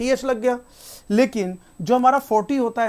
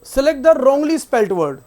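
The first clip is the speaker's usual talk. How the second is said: slow read-out; 6 dB louder, much slower than usual. Shown as a demonstration. Teacher reading the test question slowly to the class. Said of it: "reading the question aloud".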